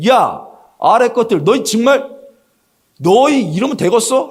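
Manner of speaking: high-pitched, exasperated dressing-down; mock-angry boss telling off subordinates; acted scolding. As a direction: scold your underlings, dumbfounded. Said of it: "하고 혼내는 거죠".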